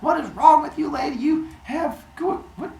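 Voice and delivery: high-pitched exasperated rant; scold, then get distracted and stumble; acted indignant outburst; yelling mid-argument. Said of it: "in the middle of yelling at Maya".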